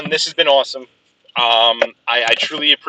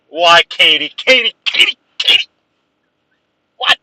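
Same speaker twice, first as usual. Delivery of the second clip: excited calling; 4 semitones higher, 4 dB louder than usual. Real, not acted. Friend joins as stream ends.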